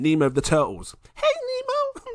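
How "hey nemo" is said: very high dude call with one word stretched long. Explaining ocean currents, a speaker attempts the turtle's voice: weak turtle impression. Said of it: "I can't even do the voice".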